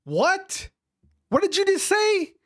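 high-pitched, baffled disbelief; totally confused, demanding a replay; incredulous. Real, not acted. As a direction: shoot the pitch right up in bewilderment. Stunned reaction to garbled clip.

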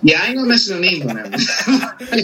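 talking through a laugh. Real, not acted. Co-host joking about naming no names, laughing. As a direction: break up laughing while hinting.

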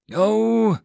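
loud, high-pitched order to move; yelling. A narrator's reading. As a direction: shout them into the chase. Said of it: "Teria yelled".

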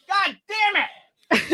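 son's yell from upstairs. Retold or imitated. Son swearing upstairs at game.

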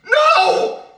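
high, loud, frantic string of noes; desperate wailing no. Acted. Baby screams at mother not to leave, desperate. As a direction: wail like a baby being abandoned.

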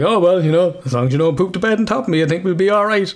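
lightly voiced girlfriend, breezy; girlfriend's teasing reply.

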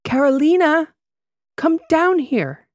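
put-on high, loud, drawn-out drunk call; drunken calling out. A narrator's reading. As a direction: bellow up the stairs, slow and slurred. Drunk woman calling upstairs.

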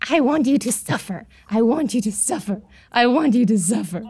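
chanted threat to scare someone; mock-menacing phone threat; scary prank voice. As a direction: repeat it like a creepy prank caller. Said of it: "is basically what me and my grandma would repeatedly say to scare the shit out of people".

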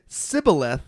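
Sibboleth said with a plain s, no sh; Sibboleth with a hard s sound; Sibboleth without H. Shown as a demonstration. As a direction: say Sibboleth, s not sh. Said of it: "without the H".

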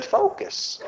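a breathy hushed whisper of the word; hushed urgent whisper; whispered focus. Retold or imitated. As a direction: whisper it like a secret. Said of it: "He said".

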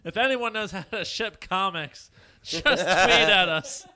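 loud, laughing mock company voice; mock corporate tweet. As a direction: read it like a clueless company.

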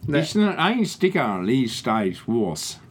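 slow, drawn-out mock German accent; fake German. Co-host bluffing in German to his friend, fake German accent. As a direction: make up German, stretching the words. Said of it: "If I do a German accent".

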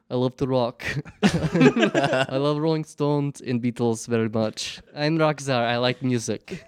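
put-on slow, hammy Russian accent, laughing. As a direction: play a Russian rock czar. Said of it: "I speak in a Russian accent".

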